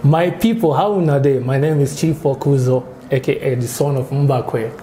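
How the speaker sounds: light Nigerian pidgin accent; a hint of a Nigerian comedian. Shown as a demonstration. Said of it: "the Nigerian accent".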